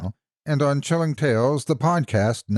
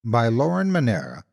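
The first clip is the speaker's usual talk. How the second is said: measured, even storytelling read; story narration. A narrator's reading. Reads a horror story aloud.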